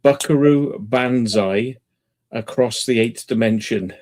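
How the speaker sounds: spelled out slowly for a listener who missed it; slow it right down so they catch the title; patient slow repetition; slow clear repeat. Real, not acted. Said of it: "Adventures of what?".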